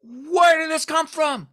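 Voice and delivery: hammed-up disbelief; playful pretend shock; mock shock.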